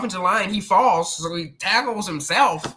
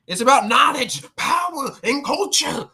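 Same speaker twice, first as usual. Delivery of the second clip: mock promo voice; 5 semitones higher, 3 dB louder than usual. Reading station slogan grandly.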